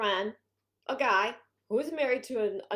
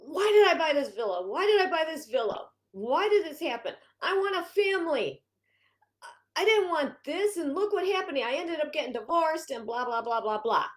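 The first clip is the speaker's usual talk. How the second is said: mock whiny crying complaint; 4 semitones higher than usual. Heroine moaning to realtor friend, hammed-up teary whine. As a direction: play the heroine moaning, close to tears. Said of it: "She's just about crying".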